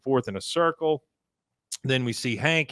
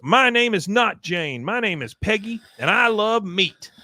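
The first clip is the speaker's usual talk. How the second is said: defiant high Peggy; 8 semitones higher than usual. Retold or imitated. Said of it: "looks at her and goes".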